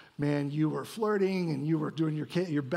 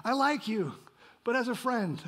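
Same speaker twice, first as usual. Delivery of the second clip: laughing rejection quote; 4 semitones higher than usual. Retold or imitated. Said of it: "I was a lot of my life".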